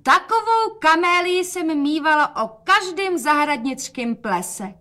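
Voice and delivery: show-off calling. A narrator's reading. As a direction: call out for the father to hear.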